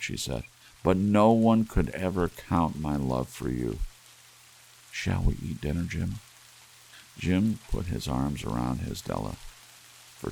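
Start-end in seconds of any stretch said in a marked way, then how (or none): 0.8-6.2 put-on a young wife begging her husband not to be angry; pleading young wife. Della speaks.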